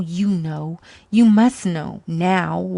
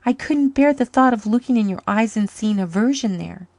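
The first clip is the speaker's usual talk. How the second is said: higher, louder, tearful confession; moaning; 5 semitones higher, 4 dB louder than usual. Acted. Woman confessing to her lover, moaning. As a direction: pour out the shame. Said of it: "she moaned".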